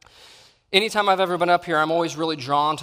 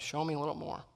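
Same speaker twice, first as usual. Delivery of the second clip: soft whisper; 11 dB quieter, faster than usual. Retold or imitated. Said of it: "God has been whispering".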